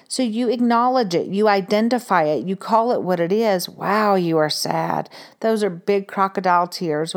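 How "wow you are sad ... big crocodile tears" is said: put-on comforting a sad child. Shown as a demonstration. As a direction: soothe the crying little one. Mother comforting a crying child.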